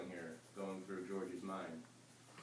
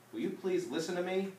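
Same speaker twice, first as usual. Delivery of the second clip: loud, higher plea to be heard; shouting; 10 semitones higher, 7 dB louder than usual. Acted. Diana pinning her brother to a tree, shouting. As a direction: shout it at him to make him listen. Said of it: "I shouted".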